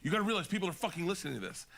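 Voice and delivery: quick, mildly heated retelling of a reprimand; Joe's angry scolding. Retold or imitated. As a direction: imitate an exasperated telling-off. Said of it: "Joe being angry at Redban".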